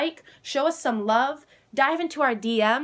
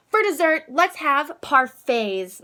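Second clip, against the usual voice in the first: posh mom; 4 semitones higher, 3 dB louder than usual. Acted. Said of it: "my mom says".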